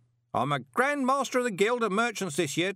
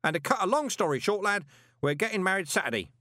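booming; 10 semitones higher than usual. A narrator's reading. Parker booming his life story at Moist. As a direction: boom it like nobody's listening. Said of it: "grasp of volume control".

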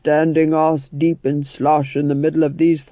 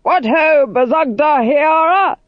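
hearty hello, higher and louder; cheerful greeting; 11 semitones higher, 5 dB louder, slower than usual. Acted. The actor-manager cheerfully greeting the dwarf, hearty call. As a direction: call out a jolly greeting to a friend. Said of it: "He said cheerfully".

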